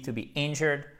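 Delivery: "injured" stressed on the first syllable, IN-jud. Shown as a demonstration. Teacher showing the tonic accent, stress on first syllable of "injured". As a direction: lean on the IN of "injured", reduce the rest. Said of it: "accent tonique ici".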